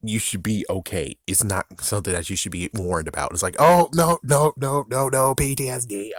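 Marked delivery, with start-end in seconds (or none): 3.6-6.1 high-pitched, hammed-up alarm; rapid-fire no's in playful alarm; mock panic. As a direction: fake a flashback freak-out, pitch up. Acting out a panicked reaction.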